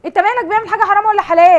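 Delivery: real heated scolding; angry rebuke. Real, not acted. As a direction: loudly tell him to butt out. Host rebukes man who interfered.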